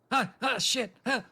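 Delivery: alarmed. Acted. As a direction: call out as if suddenly stuck. Acted: stuck in washing machine.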